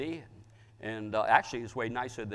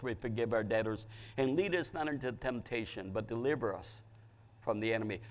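recited prayer; 2 semitones lower than usual. Acted. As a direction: recite a familiar prayer in an even, lowered voice.

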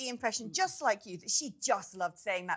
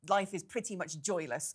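laughing; 4 semitones lower than usual. Real, not acted. Laughing on the words.

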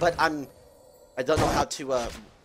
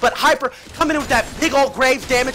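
live play-by-play; 4 semitones higher, 4 dB louder than usual. Real, not acted. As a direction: call the kill for the crowd, stretching the ending.

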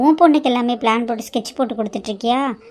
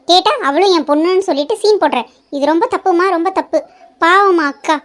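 raised, heated rebuke; indignant scolding; 2 semitones higher, 5 dB louder than usual. Acted. Younger daughter rebukes mother for mistreating sister, heated. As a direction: tell her off hotly, voice up.

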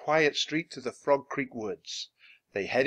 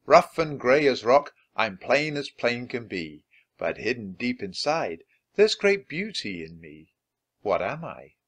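reading a riddle. Acted.

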